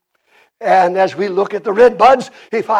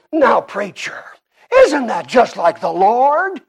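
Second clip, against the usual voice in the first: southern Indiana churchgoer, drawing out "Lord" with a rising question; southern Indiana accent; 3 semitones higher, 3 dB louder than usual. Retold or imitated. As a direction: imitate a southern Indiana sister's lilt. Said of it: "That's the way she said it".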